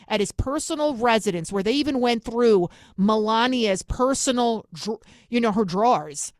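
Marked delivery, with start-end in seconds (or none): 5.5-6.3 "drawers" said "draws" in a New York accent; New York "drawers" with the r barely sounded. Real, not acted. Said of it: "I can't say it 'cause my New York accent".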